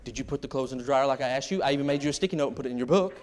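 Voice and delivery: fast, nagging scold; quick mock nagging with a laugh; nagging wife. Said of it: "instead of going".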